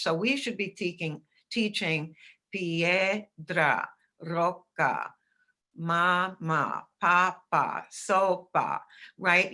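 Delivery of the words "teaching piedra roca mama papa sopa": Spanish words "piedra", "roca", "mama", "papa", "sopa" said slowly in clear syllables. Shown as a demonstration. Teacher modelling Spanish words in syllables. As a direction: tap out each syllable. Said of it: "It should be taught in syllables".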